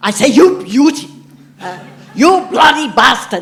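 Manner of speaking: put-on bouncy German accent, loud, high. Quoting a man the speaker met on a thirtieth birthday, bouncy german accent. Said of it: "in this really bouncy kind of German um, uh, accent".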